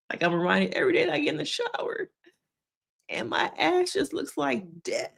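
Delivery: high, soft voice breaking with laughter; laughing lament. Retold or imitated. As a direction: squeak it out through a laugh. Cracks up mid-impersonation.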